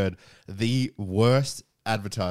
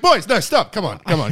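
calling out; 7 semitones higher, 8 dB louder than usual. Retold or imitated. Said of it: "And I was like".

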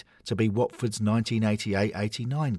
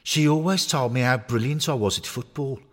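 high, loud, cocky toy voice; deluded knitted footballer; 6 semitones higher, 3 dB louder than usual. Acted. Knitted Troy insisting to Harry he's Troy Deeney, high and cocky. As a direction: puff up and claim you're the real star.

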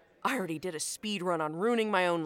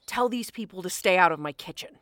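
angry shout; 7 dB louder than usual. Acted. Chef still yelling at staff.

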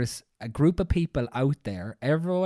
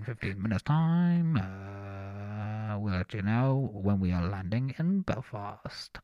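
a lightly done airline pilot over the intercom, with drawn-out uhs; pilot announcement voice; 6 semitones lower, 3 dB quieter, slower than usual. Retold or imitated. Friend mocking pilots, lightly voicing a captain's cabin announcement. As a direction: drone it like a captain on the tannoy. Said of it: "Where it's like".

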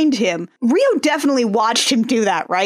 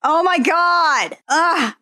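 high, slow groan of realization; oh no, caught your own mistake; embarrassed exclamation; 5 semitones higher, slower than usual. Real, not acted. Realizes her own slip of the tongue.

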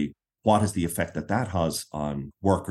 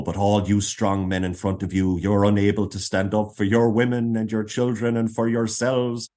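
building from a gentle start to a rousing call; mock rally cry that swells as it goes; imitating a speaker getting louder and louder; voice rising louder; 3 semitones higher, 3 dB louder than usual. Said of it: "her voice would start to rise".

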